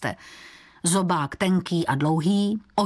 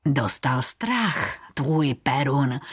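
low, slow menacing taunt; lowered, drawn-out villain voice; voice from the dark; 4 semitones lower, slower than usual. A narrator's reading. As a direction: speak slowly out of cold darkness. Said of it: "ozvalo se nečekaně z chladné tmy".

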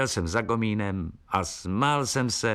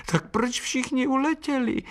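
much higher whiny bird voice; whimpering swallow. Acted. Unhappy swallow asks why everyone flew, high whimper. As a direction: whimper it like a sad little bird. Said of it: "fňukala nešťastná vlaštovka".

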